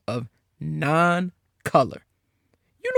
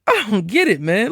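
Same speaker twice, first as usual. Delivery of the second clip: laughing through the words; a stunned laugh as he speaks; laughing in disbelief; disbelieving laugh; 6 semitones higher, 5 dB louder than usual. Real, not acted.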